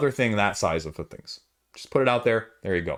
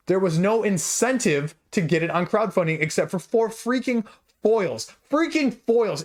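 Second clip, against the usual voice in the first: passionate rant; 4 semitones higher than usual. Real, not acted. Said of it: "I'm very passionate".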